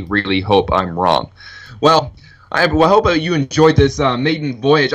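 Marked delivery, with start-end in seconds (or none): 1.8-4.9 a bit breathless after fired-up talk; slightly winded, catching breath. Real, not acted. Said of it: "I'm out of breath, actually".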